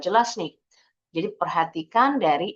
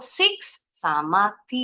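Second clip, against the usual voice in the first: "six" and "T" set apart; split into syllables; much slower than usual. Shown as a demonstration. Teacher breaking sixty for learners, split into syllables. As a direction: say "six", then "T", as separate syllables. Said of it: "Jadi kalau kita penggal".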